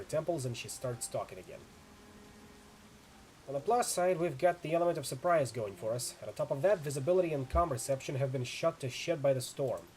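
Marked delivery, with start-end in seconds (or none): 3.5-9.8 brief the team, firm and urgent; tough mercenary woman. Acted. Chu's voice again.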